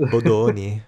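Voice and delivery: put-on quick, playful Italian accent on Bodoni; light mock Italian accent. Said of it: "I can speak with an Italian accent".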